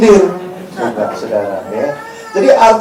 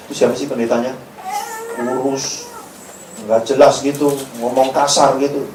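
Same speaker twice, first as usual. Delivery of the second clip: low, softer disgruntled griping; mock offended congregant; grumbling churchgoer; 6 semitones lower, 6 dB quieter than usual. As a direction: complain about the preacher under your breath.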